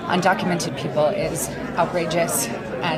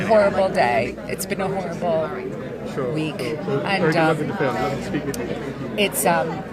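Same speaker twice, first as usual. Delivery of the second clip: tearful, voice breaking. Real, not acted. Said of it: "She's crying".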